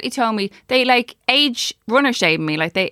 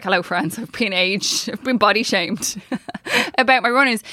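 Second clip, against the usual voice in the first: tongue in cheek; 2 semitones lower than usual. Retold or imitated. Joking post to followers about runners, tongue-in-cheek. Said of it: "kind of fucking tongue in cheek".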